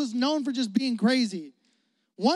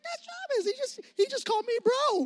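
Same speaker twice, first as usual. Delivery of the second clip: amazed whisper; 14 semitones higher, 4 dB quieter than usual. Retold or imitated. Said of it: "I was like".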